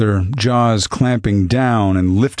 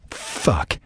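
hissed under the breath, much softer; swore; 3 semitones lower, 7 dB quieter than usual. A narrator's reading. Gunman cursing quietly as the dog howls. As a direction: spit the curse out in a whisper. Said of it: "he swore again".

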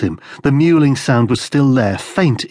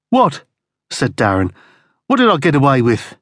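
startled; 4 semitones higher than usual. Acted. Captive shocked by accusation.

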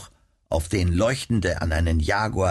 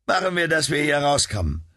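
urgent friend; 7 semitones higher than usual. Acted. Rescuer urging escape.

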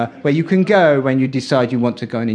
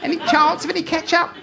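mock timid request; 12 semitones higher than usual. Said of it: "I put my little foot down".

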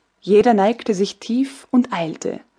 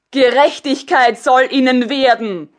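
a touch of fury, somewhat louder; angry empress; 2 semitones higher, 5 dB louder than usual. Acted. Empress angry at the soldiers' deputation, louder. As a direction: let the anger rise in her voice. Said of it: "rief die Kaiserin rot vor Zorn".

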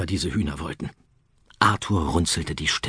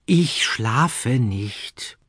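very slow, sighed words; 3 semitones higher, much slower than usual. Acted. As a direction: sigh it out wearily. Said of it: "seufzte er".

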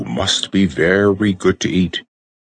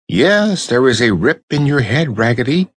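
French doll; 6 semitones higher than usual. A narrator's reading. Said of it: "she said".

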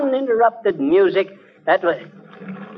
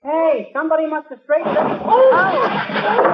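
surprised; 9 semitones higher, much slower than usual. Acted. McGee opens the packed closet.

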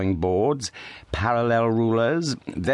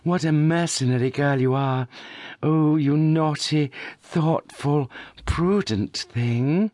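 high, slow teasing cry; mock scolding; 7 semitones higher, slower than usual. A narrator's reading. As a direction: scold her sister playfully, drawing it out. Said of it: "cried Miss Mercy".

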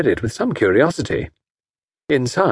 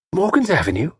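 startled; 7 semitones higher than usual. Acted. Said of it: "started violently ... startled eyes".

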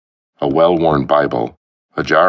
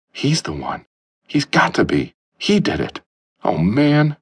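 dawning dread; 11 semitones higher than usual. Acted. Martin's awful realization.

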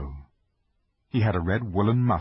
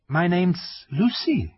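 put-on young girl voice; 9 semitones higher, slower than usual. Lucy answers fawn.

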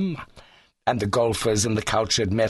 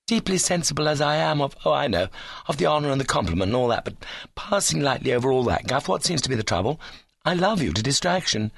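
lightly voiced golfer, higher and hurried; a touch of impatient ardour, pitched up; eager suitor; 5 semitones higher, faster than usual. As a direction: gabble the polite part, then declare love.

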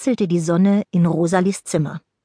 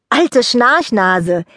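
teasing; 4 semitones higher, 4 dB louder, much slower than usual. Acted. Rosalie teases sleepy friend.

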